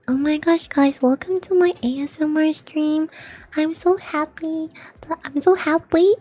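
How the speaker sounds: high-pitched, put-on happy streamer voice; mock gushing ASMR host.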